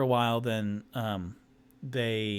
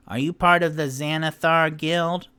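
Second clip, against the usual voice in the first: high suspicious question; 5 semitones higher, 8 dB louder than usual. Acted. Tipsy questions halflings.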